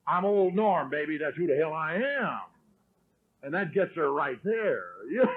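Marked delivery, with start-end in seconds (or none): 0.1-2.4 acted swagger, introducing himself to his wife; cocky self-introduction. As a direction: introduce yourself like you own the place. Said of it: "then you introduce yourself to her".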